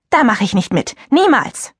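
sharp high NIEMALS; a prim girl rejecting the kissing game; indignant. Acted. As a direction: refuse it in outrage. Cleo refuses indignantly.

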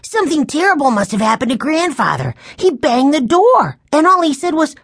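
put-on high, urgent child's voice; alarmed boy crying out. A narrator's reading. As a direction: blurt out alarming news like a little boy. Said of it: "Benny cried".

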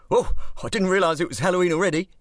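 put-on high, fast babbling drunk; drunk gibbering. A narrator's reading. Drunk outside the club gibbering at masked men. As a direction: gabble it like a tipsy old soak. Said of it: "he gibbered".

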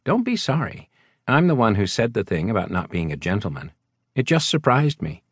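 a woman brushing off his apology; voiced woman. Carolyn's lines in a higher voice.

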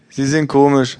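hohes, lautes gleichgültiges Ja; Buchhändlerin. Acted. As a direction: ein schrilles Ja ohne Interesse. Bookseller voiced high. (Verkäuferin antwortet hoch und laut gleichgültig)

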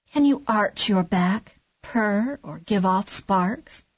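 slow, lofty cat voice; haughty cat. Acted. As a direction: look down on him as the cat. Cat questions the duckling.

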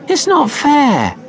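high, loud, slow sulky wail; whiny complaint. A narrator's reading. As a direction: protest like a cross little girl. Child complaining.

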